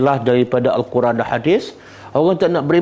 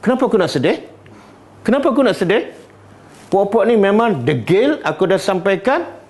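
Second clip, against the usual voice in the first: exasperated complaint; 4 semitones higher than usual. Acted. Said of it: "Dia jawab".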